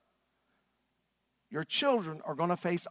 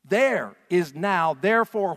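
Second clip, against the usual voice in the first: with passion; 2 semitones higher, 8 dB louder, slower than usual. Shown as a demonstration. Preacher leading the congregation, loud and passionate. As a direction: shout it out with passion. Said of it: "say it out loud with passion".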